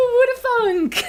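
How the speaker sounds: sarcastic. Real, not acted. Ironic comment on expense.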